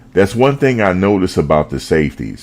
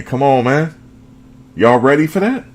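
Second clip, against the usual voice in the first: hyped up; 10 semitones higher than usual. Real, not acted. Hyping up the defense lineup.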